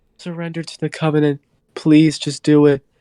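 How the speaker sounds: dead-level, expressionless monotone in a villain voice. Reviewer imitates a show's human villain, in a very monotone voice. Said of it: "very monotone voice".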